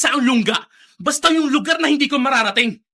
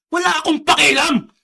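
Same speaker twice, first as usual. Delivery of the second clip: angry retort; 3 semitones higher than usual. Acted. Son defying father.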